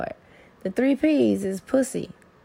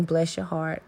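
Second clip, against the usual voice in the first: sincere blessing; 3 semitones lower, 4 dB quieter than usual. Shown as a demonstration. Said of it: "there's some times when I do mean".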